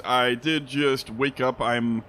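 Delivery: hoarse, just woken up; a morning hoarse voice. Real, not acted. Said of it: "Excuse me if my voice sounds a little hoarse".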